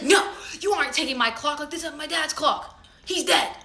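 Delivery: hammed-up maternal protest; mock protesting mom. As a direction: act out a mom's outraged refusal. Mom refusing to give up clock.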